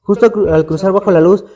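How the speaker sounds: measured read-aloud storytelling with pauses between phrases; horror story narration. A narrator's reading. Podcaster telling a friend's ghostly canal encounter, scary-story narration. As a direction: narrate an eerie true account, phrase by phrase.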